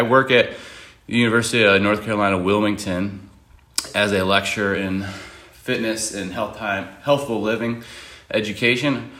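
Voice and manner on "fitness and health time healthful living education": out of breath after running stairs; catching breath between words; running out of air. Real, not acted. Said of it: "I'm running out of breath 'cause I just ran downstairs".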